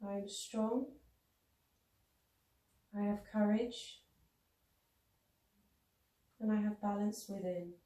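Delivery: calm, measured affirmations with long pauses; unhurried meditative mantra; recited affirmations. Acted. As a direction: recite each affirmation evenly, leaving space to repeat it mentally.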